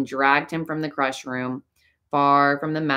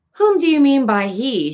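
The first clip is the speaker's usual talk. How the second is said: much higher, louder, strange altered voice; changed voice; 11 semitones higher, 7 dB louder than usual. A narrator's reading. Christine asking Raoul who he means, voice changed. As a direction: let her voice turn strange and tense. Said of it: "she asked in a changed voice".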